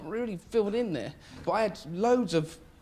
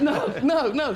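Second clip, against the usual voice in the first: louder, higher, laughing no-no-no; mock panicky denial; 4 semitones higher, 5 dB louder, slower than usual. The young comic denying to the jealous husband, mock panic. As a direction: play the scared young comic, half laughing. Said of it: "I said".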